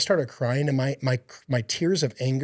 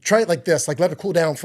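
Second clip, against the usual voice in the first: higher, eager pitch like selling a new coffee; retelling a buddy's words, raised and eager; excited buddy; 4 semitones higher, 3 dB louder, faster than usual. Retold or imitated. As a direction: gush about it like a friend with a find. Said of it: "he's like".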